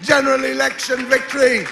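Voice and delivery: swelling, loud emotional announcement. Real, not acted. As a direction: voice rising with strong feeling. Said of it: "forgive me for the emotion of this next one".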